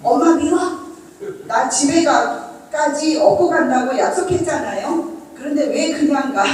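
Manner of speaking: mild mock sob of a sulking child; crying child. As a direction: whine it like a tearful toddler. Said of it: "닭똥 같은 눈물을 뚝뚝 떨어뜨린다".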